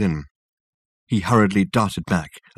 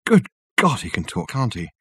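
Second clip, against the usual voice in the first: sudden exclamation. Acted. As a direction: blurt it out, startled and impatient. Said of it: "Richard exclaimed suddenly".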